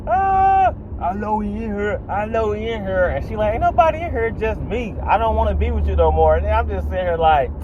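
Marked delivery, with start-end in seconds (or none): 0.1-3.1 high, hammed-up jealous boyfriend yelling; mock yelling boyfriend. Comedian voicing the jealous ex yelling at the door, high and mock angry. 3.5-6.4 high, lightly voiced woman pushing him off; voicing the girlfriend. Girlfriend telling the ex through the door, high lightly voiced woman.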